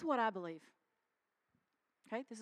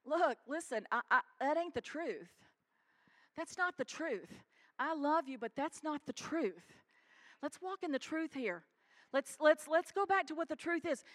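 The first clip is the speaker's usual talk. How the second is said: gentle encouragement; 3 semitones higher than usual. Shown as a demonstration. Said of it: "this is what encouragement looks like".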